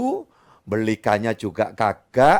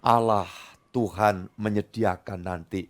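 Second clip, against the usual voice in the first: calm trusting father; 6 semitones lower than usual. Acted. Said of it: "Abraham berkata".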